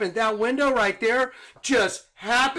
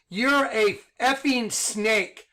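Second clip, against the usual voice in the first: 1 slow and deliberate; 2 semitones higher, much slower than usual. Shown as a demonstration. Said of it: "I'm gonna speak like this".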